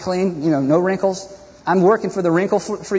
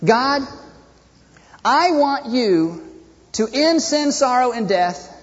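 mock self-centred plea to God, higher-pitched; hypocritical prayer; 4 semitones higher than usual. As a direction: plead with God in a hammed-up prayer. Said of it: "the hypocrisy of that is? Watch this".

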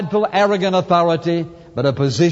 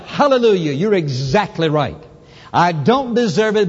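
shouted hallelujah. Shown as a demonstration. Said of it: "just shout".

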